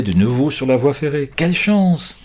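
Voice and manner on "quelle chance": glad relief. Acted. Children find the railway.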